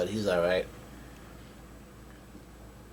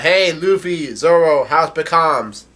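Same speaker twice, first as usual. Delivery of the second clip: raised, higher-pitched mock yell; Chopper yelling; 4 semitones higher, slower than usual. Chopper calls to Luffy and Zoro, imitated higher-pitched yell. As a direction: call out to crewmates, voice lifted. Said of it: "Chopper yells out".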